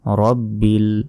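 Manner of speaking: "রব্বিল" with short র, not রা; short vowel. Shown as a demonstration. Teacher correcting a common slip, short "রব্বিল". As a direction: clip it: "রব্বিল", never "রাব্বিল". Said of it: "রাব্বিল বলা যাবে না".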